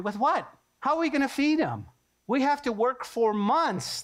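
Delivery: mock-panicked disciples. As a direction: protest in disbelief.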